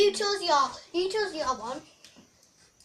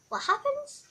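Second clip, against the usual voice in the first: crying shout; 9 semitones higher, 5 dB quieter than usual. Real, not acted. Toy upsets child.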